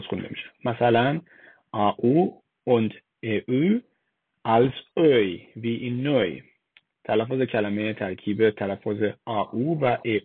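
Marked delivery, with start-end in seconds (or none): 4.5-6.4 put-on "neu" rhyming with English boy. Shown as a demonstration. Teacher showing how German EU is read, "oi" as in "neu". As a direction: say "oi" and "neu" with an oy glide.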